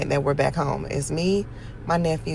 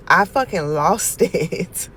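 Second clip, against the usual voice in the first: laughing; 4 dB louder, slower than usual. Real, not acted. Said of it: "I was laughing so hard".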